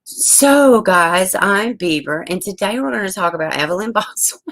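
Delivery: bright, chirpy show-host opener, starting high and loud; mock her own stream intro the way her little son does; a kid hamming up a YouTuber greeting; imitating a kid doing a YouTube intro. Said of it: "like, emulate me".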